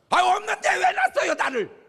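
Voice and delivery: high, loud shout with a laugh; rude demand. Retold or imitated. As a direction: mouth off at a father, laughing. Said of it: "싸가지 없는 놈이라". (아버지에게 대드는 웃음 섞인 높고 큰 외침)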